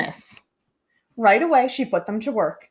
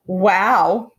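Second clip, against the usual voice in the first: yelled; 3 semitones lower, 5 dB louder than usual. Acted. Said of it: "yelled the kids".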